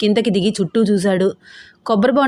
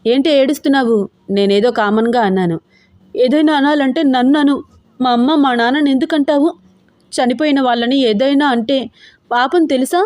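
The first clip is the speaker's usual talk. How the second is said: hurt and upset; 4 semitones higher than usual. Acted. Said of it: "చిన్నీకి అంత బాధగా అనిపించింది".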